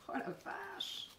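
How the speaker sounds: breathy surprised whisper; whispered exclamation. Real, not acted. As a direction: gasp it out in a whisper. Struggling with sticky candy.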